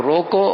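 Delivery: روکو said alone with a lift at the end; stand-alone command. Shown as a demonstration. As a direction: cut off روکو as a complete order. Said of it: "میں کہہ رہا ہوں".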